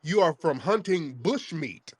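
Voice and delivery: slow, deliberate taunt; measured, drawn-out mockery; mocking correction. Real, not acted. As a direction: draw the words out as a jeer. Host mocks caller's Huntsville claim.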